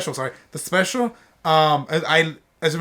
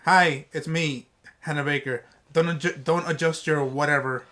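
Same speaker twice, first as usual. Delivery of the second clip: Hannah Baker tape voice; 3 semitones lower than usual. Retold or imitated. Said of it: "is it like".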